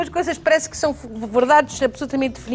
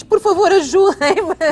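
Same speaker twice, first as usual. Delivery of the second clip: imitated desperate plea, higher and louder; mãe desesperada; 4 semitones higher, 4 dB louder, much slower than usual. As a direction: mock-desperate cry for help, drawn out at the end. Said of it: "uma mãe desesperada que diz". (súplica desesperada, a imitar uma mãe aflita)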